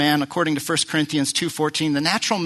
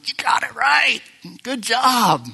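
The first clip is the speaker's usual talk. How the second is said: bright praise, pitched higher and louder; beaming praise; 7 semitones higher, 4 dB louder, slower than usual. Acted. Jesus beaming at Peter's answer, delighted. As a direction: cheer him on with a smile. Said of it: "Jesus just smiling, going".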